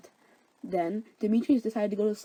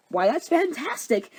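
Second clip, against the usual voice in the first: higher-pitched, drawn-out delight; 7 semitones higher than usual. Acted. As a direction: exclaim it with slow, mock-grand delight. Oberon delighted at the news.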